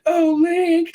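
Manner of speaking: bat your eyes and call him; swooning princess call. Retold or imitated. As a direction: princess luring Link again. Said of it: "It's like".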